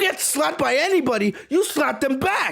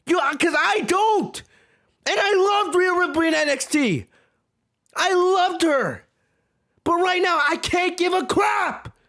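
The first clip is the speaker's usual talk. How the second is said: raised, slowed and emphatic; heated rant; 5 semitones higher than usual. Real, not acted. Vlogger ranting at his viewers, heated and raised. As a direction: hammer home that he no longer cares.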